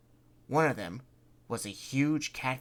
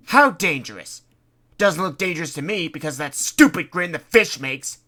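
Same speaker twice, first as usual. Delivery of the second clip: scornful doubt; 6 semitones higher, 12 dB louder than usual. Acted. Mocking scepticism.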